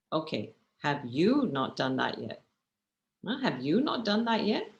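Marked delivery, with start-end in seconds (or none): 0.8-2.4 YOU picked out, tune falling at the end; pointed YOU, as if expecting obedience; stress on YOU. Shown as a demonstration. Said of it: "if you emphasize on". 3.4-4.7 YOU swooping high, questioning rise at the end; pointed, higher-pitched YOU in disbelief; stress on YOU. Shown as a demonstration. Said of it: "if you emphasize on".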